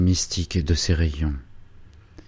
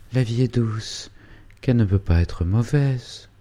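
put-on dreamy young girl; 5 semitones higher than usual. Angélique dreams aloud to mother.

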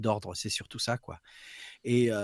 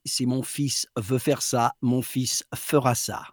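solemn mother; slower than usual. Retold or imitated. Mother's firm verdict at meeting.

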